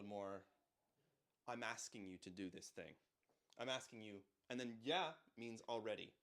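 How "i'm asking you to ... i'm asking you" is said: gentle request. Shown as a demonstration. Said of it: "It's a little gentler".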